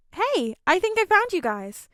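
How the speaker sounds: high, loud call across the snow. A narrator's reading. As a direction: shout to find them in the storm. Calling out through storm.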